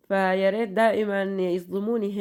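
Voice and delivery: breathy laughing hush, delighted; giggly whisper. Real, not acted. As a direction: laugh then whisper the wish under your breath. Giggling wish for more surprises.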